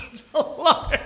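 high, drawn-out mock heckle; heckler calling out. Comedian imitating the bar heckler, high mock cry.

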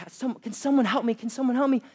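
high-pitched imitation of a panicked woman; mock panic. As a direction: plead for help, lightly hammed-up. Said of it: "she's in a panic".

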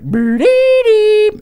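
very high, slow, loud creature warble; Grimace voice. Acted. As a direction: stretch it out like a window-shattering cartoon monster. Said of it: "Grimace is like".

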